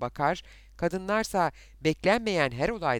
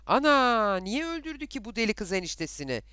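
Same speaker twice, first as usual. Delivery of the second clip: astonished questioning; 8 semitones higher, 4 dB louder than usual. Acted. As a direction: gasp the question like shocked village gossip. Villagers' astonished questions after killing. (şaşkınlıkla, tiz sesle sorarak)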